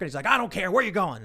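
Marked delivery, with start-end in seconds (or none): 0.3-0.7 raised, higher mock irritation; rude, angry. Cabbie answering a friendly passenger, rudely angry. 0.7-1.2 high, impatient mock demand; angry demand. Cabbie to the next passenger, angrily impatient.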